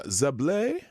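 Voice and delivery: put-on lightly French-accented name. Greeting a chat member by name, in a French accent. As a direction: give the name a French lilt. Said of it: "do that in a French accent".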